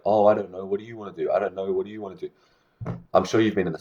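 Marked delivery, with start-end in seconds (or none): 0.0-2.3 mock indecisive. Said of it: "everyone will just look at each other like".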